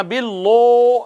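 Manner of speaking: باللہ with dark heavy لل; thick باللہ, lips rounded; wrong heavy lam. Shown as a demonstration. Teacher shows the mistake, heavy باللہ. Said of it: "اس کو یوں نہیں کہنا".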